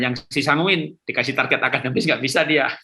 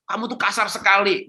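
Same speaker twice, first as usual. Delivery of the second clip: 1 mock nagging parent; 8 semitones higher than usual. Example of nagging a child.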